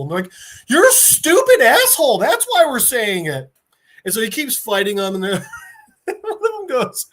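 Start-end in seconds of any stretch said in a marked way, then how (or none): 0.7-3.5 loud, high angry jeer; angry insult. Retold or imitated. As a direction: spit the insult at him. Terrorist insulting Peacemaker.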